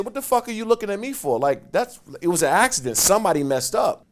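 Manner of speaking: high, loud, indignant protest; retold yell. Player yelling at the coach over an accident, loud retold protest. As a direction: yell it up high, as if wrongly blamed. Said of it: "I yell, I'm yelling".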